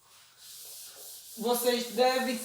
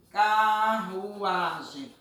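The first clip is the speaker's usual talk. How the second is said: CARRUAGEM stretched very slowly, syllable by syllable; drawn out by syllable; much slower than usual. Shown as a demonstration. Teacher gives pupils a word to separate, carruagem drawn out by syllable. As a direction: draw out each syllable of carruagem. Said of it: "Peço a vocês para separar essa palavra".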